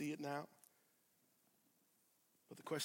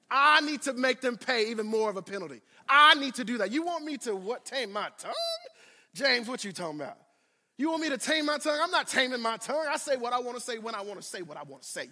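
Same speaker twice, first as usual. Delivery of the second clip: defiant sass; 4 semitones higher, faster than usual. Acted. Acting defiant believer, exaggerating.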